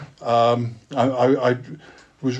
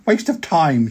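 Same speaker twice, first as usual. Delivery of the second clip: mother's complaint; 4 semitones higher, slower than usual. Acted. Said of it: "she said".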